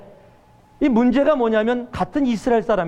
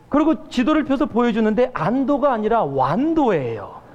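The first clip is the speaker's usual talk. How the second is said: ordinary talk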